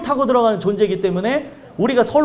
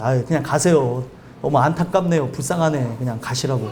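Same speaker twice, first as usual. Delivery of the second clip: pitying dismissal; 9 semitones lower than usual. Retold or imitated. Pastor calmly sending them away.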